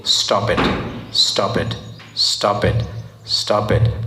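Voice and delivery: soft, whispered stop it, slowly repeated; whispered warning. Retold or imitated. Conscience pleading with a gossiper to stop, in a whisper. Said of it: "there's a voice saying".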